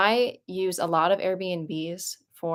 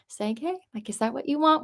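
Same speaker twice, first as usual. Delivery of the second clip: loving; 6 semitones higher than usual. Retold or imitated. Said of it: "with, like, the most loving eyes".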